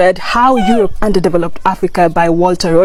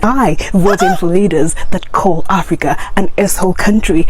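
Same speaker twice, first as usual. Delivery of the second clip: satirical arrogant American. Acted. Vlogger parodies an American insulting Africans, mock scorn. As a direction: sneer down at the poor African, mildly mocking. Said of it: "let's see the, our response".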